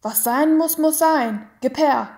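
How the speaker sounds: high, loud, harsh demand; rough man. A narrator's reading. Executioner demands the child, loud and harsh. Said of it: "sagte der raue Mann".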